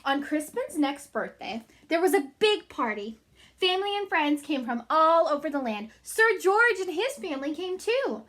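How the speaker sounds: lively read-aloud for little ones; reading to children. A narrator's reading. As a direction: read the book to the class. Reading picture book aloud.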